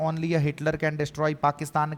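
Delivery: very slow, word by word, as if for notes; slow dictation. Shown as a demonstration. Teacher reading an exam sentence to students, very slow. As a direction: spell the exam sentence out slowly so students can write it. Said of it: "sir, इसका क्या मतलब हो गया".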